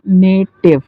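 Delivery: नेटिव in two separate beats, ने then टिव; teacher sounding out नेटिव as two syllables; split into syllables. Shown as a demonstration. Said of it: "कहाँ तक कितनी आवाज़ निकाली है".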